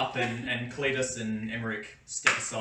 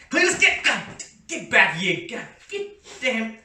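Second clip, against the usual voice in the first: much higher, loud yokel yell, slow; yelling guard; 9 semitones higher, 8 dB louder, slower than usual. Acted. Burly guard yells after Cletus running off, loud drawn-out yell. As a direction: haul the wandering idiot back with a shout. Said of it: "the burlier bloke next to him goes".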